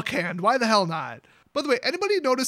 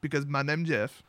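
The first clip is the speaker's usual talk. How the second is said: meme voice; 6 semitones lower, 4 dB quieter than usual. Pretend. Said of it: "That meme will never die".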